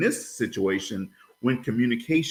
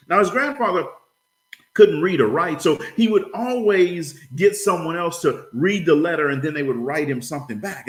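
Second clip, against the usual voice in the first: higher-pitched, animated storytelling; folksy story narration; 5 semitones higher than usual. Acted. Speaker tells seminar a funny Louisiana story, animated narration. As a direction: spin a tall tale to the room.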